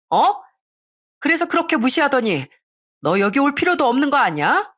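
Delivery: furious sister-in-law tirade; shouting. Acted. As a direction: spit out your contempt at her. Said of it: "딸이 소리를 친 것처럼".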